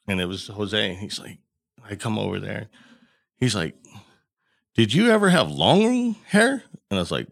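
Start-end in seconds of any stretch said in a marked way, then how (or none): 4.7-6.6 high, louder, drawn-out call; retold yell. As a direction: imitate someone yelling a question over, slowly. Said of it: "someone's yelling at me".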